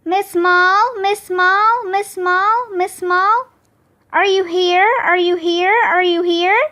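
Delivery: imitated echo bouncing off walls; singsong repeats of a gym echo; echoing call. A narrator's reading. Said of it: "hear Miss Daisy's words over and over".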